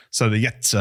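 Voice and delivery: Jetzer with weight on the tz ending; Berlin Jetzer. Shown as a demonstration. Host explaining how Berliners say now, stressed ending. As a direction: lean into the end of Jetzer. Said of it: "get the emphasis on the end bit".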